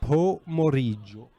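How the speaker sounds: Pomeriggio drawn out slowly, syllable by syllable for the listener; slowed-down repeat. Shown as a demonstration. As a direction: spell out Pomeriggio slowly for a confused friend.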